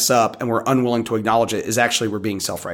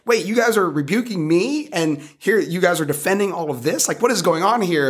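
incredulous, higher-pitched challenge; indignant confrontation; 6 semitones higher than usual. Retold or imitated. Preacher retelling how he challenged his critics, indignant and high. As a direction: lean into them hard, pitch jumping up in disbelief. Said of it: "leaning into 'em pretty hard".

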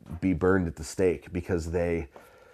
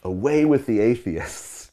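slow, a touch louder declaration of "Away with the atheists"; proclaiming to the crowd; 4 semitones higher, 3 dB louder than usual. Retold or imitated. Polycarp turns the words on the crowd, slow proclaiming. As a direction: turn it back on the crowd, slowly, with "Away with the atheists" drawn out. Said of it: "he turns to the crowd and he says".

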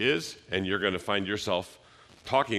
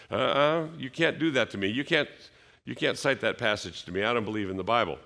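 higher, sputtering mock objection; indignant unbeliever; 4 semitones higher than usual. Preacher mimicking a skeptic who rejects the Bible, pitched up and huffy.

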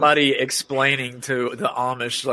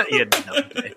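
put-on Scottish accent; 9 semitones higher, slower than usual. Scottish insult round.

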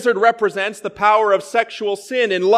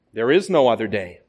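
grave angel; 10 semitones lower than usual. A narrator's reading. Angel answering the man's delay, low and solemn. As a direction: pronounce it like final judgement.

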